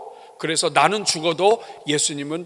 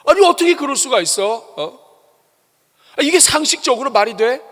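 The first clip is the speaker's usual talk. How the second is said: higher, louder mock outrage; indignant protest; 9 semitones higher, 8 dB louder than usual. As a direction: act out a scandalized objector. Mocking an indignant objection. (높고 큰 소리로 흉내 낸 분개)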